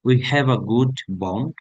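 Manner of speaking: slow, deliberate reading of a sample answer; slow model reading. Acted. Teacher reading a sample answer to students, slow and deliberate. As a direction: read it out slowly for students to follow.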